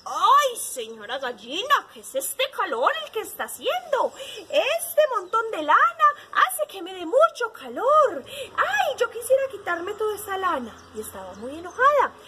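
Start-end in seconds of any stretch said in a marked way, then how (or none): 0.1-10.7 high, loud whining complaint; grumpy sheep. A narrator's reading. Sheep griping to the hen about her wool, grumpy. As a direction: moan like a hot, fed-up storybook sheep. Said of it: "Estaban así de mal humor".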